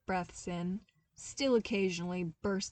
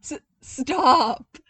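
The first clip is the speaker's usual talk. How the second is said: breathless, loud gasp through laughter; 7 semitones higher, 15 dB louder than usual. A narrator's reading. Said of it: "Zev gasped out".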